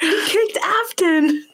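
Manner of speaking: high, slow, laughing through the words; laughing quote. Retold or imitated. Kids reporting the fall to mom, laughing high and slow. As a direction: spill it out between laughs.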